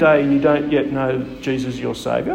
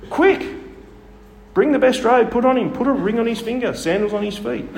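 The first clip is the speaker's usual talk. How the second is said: overjoyed father ordering servants; excited father; 7 semitones higher than usual. Retold or imitated. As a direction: call the servants in a joyful rush. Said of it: "You can hear the excitement in the dad".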